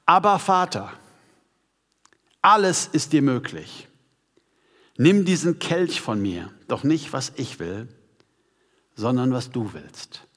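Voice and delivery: measured prayer, long pauses between phrases; solemn scripture reading. Acted. Preacher reading Jesus' prayer to the congregation, solemn. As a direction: read it phrase by phrase, weightily.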